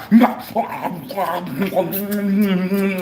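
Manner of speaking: noisy mock munching and snorting; long cartoonish eating noise; exaggerated gobbling snort. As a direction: gobble and snort like inhaling food. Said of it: "and snorted a spare rib".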